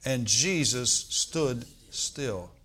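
very slow congregation recital; slow together. Shown as a demonstration. Preacher leading the church reciting slowly. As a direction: say it slowly with everyone. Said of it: "Can we say that together?".

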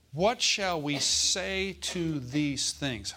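slow reading. Shown as a demonstration. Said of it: "Or not, let me say it like this".

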